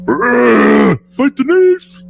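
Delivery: big guy voice. Acted. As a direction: drag it out like a dumb brute. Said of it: "we just have to do a big guy voice".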